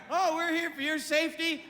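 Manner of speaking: a hint of a chirping cabin-crew voice; mock flight attendant. Flight attendant reassuring passengers, mock sing-song. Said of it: "they're always there".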